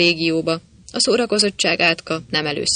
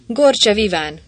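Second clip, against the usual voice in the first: loud call over a noisy crowd; a raised call over the din; calling out a name; 4 semitones higher, 4 dB louder than usual. Acted. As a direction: shout the name across the room. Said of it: "kiáltotta a zajongó".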